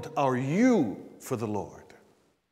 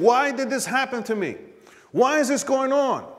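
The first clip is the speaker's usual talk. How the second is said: higher-pitched acted questioning; 7 semitones higher than usual. Preacher voicing a hurt believer's doubts, questioning. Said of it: "now you're questioning".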